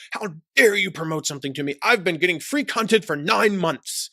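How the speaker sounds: lightly put-on indignant British accent; mock angry, stuck-up British outrage. Outraged subscriber scolds the marketer, stuck-up British accent. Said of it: "they always speak in that stuck-up British accent".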